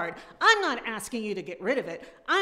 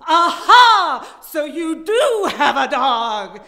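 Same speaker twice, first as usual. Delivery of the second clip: much louder and higher, full-on yelling; furious tirade climax; 8 semitones higher, 13 dB louder than usual. Acted. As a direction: scream it all out at the neighbor. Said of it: "reading Sharon's tirade".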